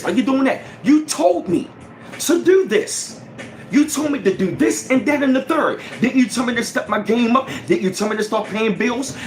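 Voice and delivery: indignant complaining. Retold or imitated. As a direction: play the critic who resents your success. Voicing critics who object to success.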